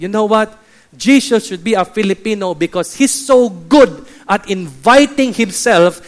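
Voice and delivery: loud, emphatic comic argument; Pastor Tony. Retold or imitated. Filipino pastor explaining to the others, loud emphatic retelling. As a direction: drive the punchline home loudly. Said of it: "Then Pastor Tony said".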